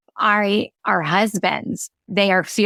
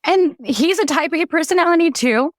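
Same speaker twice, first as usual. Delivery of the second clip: higher, choked-up retelling; holding back tears while telling it; tearing up; 3 semitones higher than usual. Real, not acted. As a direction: voice lifted with real emotion on the edge of crying. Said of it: "I'm gonna tear up thinking about this".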